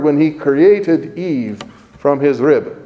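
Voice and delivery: created leaned on hard; stress on created. Shown as a demonstration. Preacher marking created for the congregation, stressing created. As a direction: underline created with the voice. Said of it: "underline that word".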